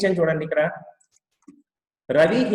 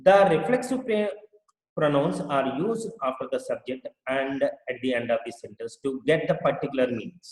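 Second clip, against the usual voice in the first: very slow, word by word reading; slow teacher dictation; much slower than usual. Shown as a demonstration. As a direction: read it out slowly for students to copy. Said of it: "teacher reads rule slowly".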